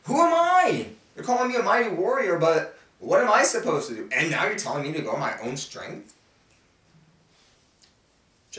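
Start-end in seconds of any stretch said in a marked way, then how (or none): 0.0-6.1 much higher, louder disbelieving voice; a squeaky, hammed-up who, me; incredulous Gideon. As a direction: protest like you can't believe it. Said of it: "And you're saying".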